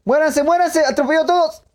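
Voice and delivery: manic high-pitched shouting; berserk rage. Real, not acted. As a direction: scream like a crazed madman. Running over enemies in game.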